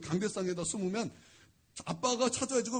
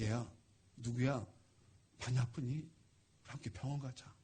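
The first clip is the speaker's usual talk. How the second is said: put-on low, soft pastor's voice to a sick child; hushed, low and caring; gentle concern; 8 semitones lower, 7 dB quieter than usual. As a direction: speak softly and low, with tender care.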